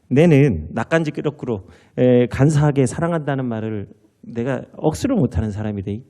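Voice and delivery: lightly voiced Gyeongsang groom; a hint of a gruff Gyeongsang husband; Gyeongsang dialect. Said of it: "좀 사투리가 좀 어색해요".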